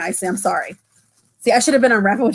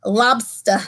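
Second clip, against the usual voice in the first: lightly imitated up-north accent; imitated northern accent; 3 semitones lower than usual. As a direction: say it like a Maine local. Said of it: "Is that how they say it?".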